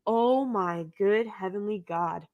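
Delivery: mock prayer.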